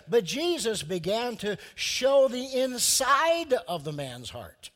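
ordinary talk

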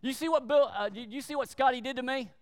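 a hint of a complaining teammate; tattling teammate. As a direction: play a kid running to tell on someone. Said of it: "Billy says to Hank".

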